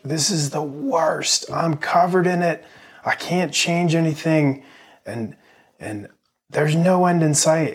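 high mock whine of a crying baby; upset baby. Dad voicing his messy baby's despair, high mock whine. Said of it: "he was screaming and crying because he was like".

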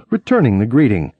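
plain reading voice

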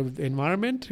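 ENVIRONMENT in a slipped foreign accent. Real, not acted. Speaker slipping mid-argument, Eastern European accent. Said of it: "The, the weird accent".

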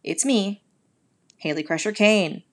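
big booming host welcome; announcer voice. Pretend. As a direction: open the show like an announcer. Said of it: "Do you like my announcer voice".

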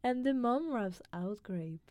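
put-on steady, careful recitation in his British accent; poem reading. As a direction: read the poem out as a cultured foreigner would. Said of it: "You wanna try reading it really quick?".

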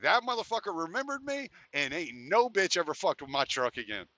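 ordinary talk

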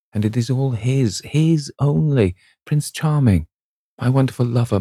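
put-on high, lilting lovestruck girl; a young actress giddy with first love, voice lifted high; Sybil in rapture. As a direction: sing his praises, swept away and dreamy. Sybil rhapsodising about her lover.

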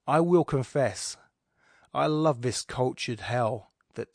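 slow, measured poem recital; poem reading. Acted. Reader performing the sonnet for his audience, measured. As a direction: read the sonnet with weight and pauses.

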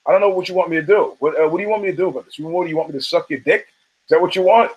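fast, mildly exasperated retold comeback; exasperated retort. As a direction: fire off impatient questions as the friend. Friend confronts aggrieved husband, retold.

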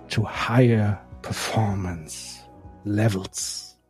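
English with a German accent; measured German-accented reading of an English post. Real, not acted. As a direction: read it out in German-accented English, slowing at the close. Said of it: "deswegen entschuldigt meinen Akzent".

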